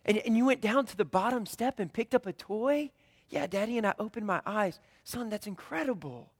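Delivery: encouraging dad. Retold or imitated. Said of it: "I get down on the level with my son".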